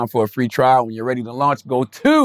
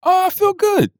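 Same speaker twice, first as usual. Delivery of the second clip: excited. Real, not acted. Sudden high cheerful reply.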